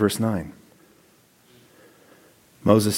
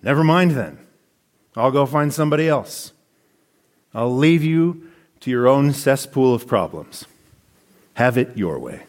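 mock angry rejection. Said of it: "Anger and abandonment?".

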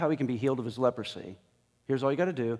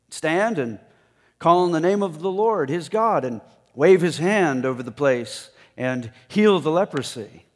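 indignant Naaman; 4 semitones higher, 6 dB louder than usual. Acted.

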